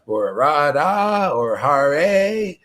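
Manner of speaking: slow, drawn-out holy names; slowly lingering on every name; relishing the name. Shown as a demonstration. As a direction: savour each name, stretching it out. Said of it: "relish the name".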